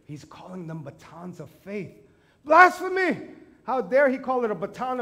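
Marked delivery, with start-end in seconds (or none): 2.5-5.0 high, loud hammed-up cry of blasphemy; mock indignant outburst; mock outrage. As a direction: play the scandalised churchgoer, over the top. Mock outrage at fake batons.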